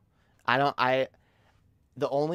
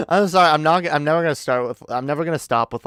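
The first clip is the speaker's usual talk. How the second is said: laughing outburst; 4 semitones higher, 11 dB louder, much faster than usual. Real, not acted. Bursts out laughing and shouting.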